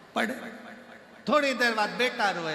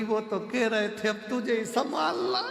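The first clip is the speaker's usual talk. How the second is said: higher, whiny tearful dodge; mock crying excuse; 7 semitones higher than usual. Wife dodges the guru's offer, whiny mock crying. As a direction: whimper it as a fake sob. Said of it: "पत्नी रोती रोती बोली".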